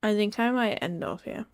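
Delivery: slow, drowsy yawning speech. Real, not acted. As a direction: talk through a yawn. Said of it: "I'm yawning quite a bit".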